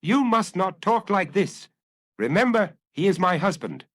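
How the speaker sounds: lightly voiced dignified lady, steely; a hint of a calm, stern wife; silver voice with steel. A narrator's reading. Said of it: "her voice of silver that still had in it something of steel".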